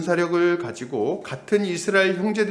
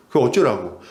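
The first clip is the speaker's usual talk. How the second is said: louder, lower dismissive so-what, "어쩌라고" snapped; mocking retort; 5 semitones lower, 5 dB louder than usual. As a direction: shrug him off with a louder jab of "어쩌라고". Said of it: "이렇게 얘기하는 거예요".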